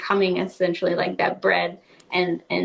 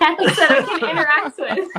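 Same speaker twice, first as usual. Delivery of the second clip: laughing; 8 semitones higher, 3 dB louder than usual. Real, not acted. Laughs at her own wording.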